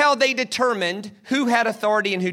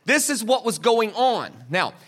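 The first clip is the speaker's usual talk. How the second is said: ordinary talk, nothing marked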